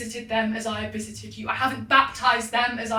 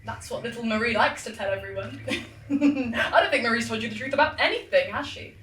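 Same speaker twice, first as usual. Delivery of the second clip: laughing cruelly; mocking laugh; faster than usual. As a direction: sneer with laughter.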